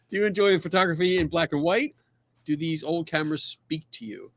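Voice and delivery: a hint of a gushing fan; lightly hammed-up question; reading a viewer question. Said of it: "Aaron Bacon".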